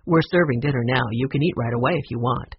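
a hint of an obliging motel manager.

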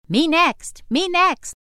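high, loud eager pleading; eager calling out. Acted. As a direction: shout it like an eager kid.

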